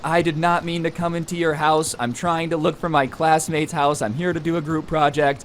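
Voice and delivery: imitating a friend's anxious excuse; pleading explanation. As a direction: act out explaining yourself to an angry stranger. Acted friend pleading with angry homeowner.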